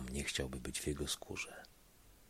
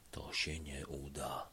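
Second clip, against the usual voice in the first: slow, softer whisper to himself; 2 semitones lower, 10 dB quieter than usual. A narrator's reading. Assistant whispering to himself, slow and soft. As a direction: breathe it to yourself in dread. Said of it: "Pomocnik szeptał do siebie".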